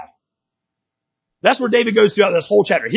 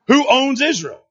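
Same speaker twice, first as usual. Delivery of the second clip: higher, firmer, quicker question; confident re-ask; 6 semitones higher, slower than usual. Real, not acted. Preacher re-asking the congregation for confidence, raised and insistent. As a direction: lift the pitch and demand an answer. Asks again, demanding more confidence.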